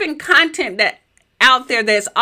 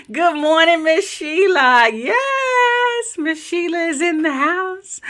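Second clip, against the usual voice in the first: excited; 7 semitones higher, slower than usual. Real, not acted. Hyping a viewer's arrival.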